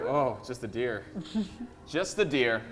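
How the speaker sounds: slow, laughing relief; a lightly voiced relieved guard. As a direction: shrug it off, chuckling. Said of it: "he's like".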